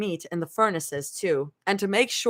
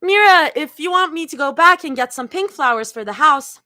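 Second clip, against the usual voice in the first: strained, higher croak; croaky; 7 semitones higher, 7 dB louder than usual. Acted. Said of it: "Zoe croaks out".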